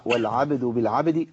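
والعبد بالعبد slow and easy, each vowel clean; unforced reading. Shown as a demonstration. Teacher models effortless reading, clean easy والعبد بالعبد. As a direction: say والعبد بالعبد without forcing any letter. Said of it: "من غير ما أعمل أي تكلف".

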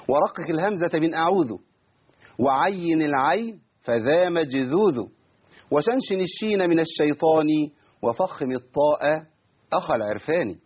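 slow, measured poem delivery; verse recitation. Shown as a demonstration. Teacher recites a sheikh's verse, slow and measured. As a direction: recite the verse in metre, drawing out long syllables.

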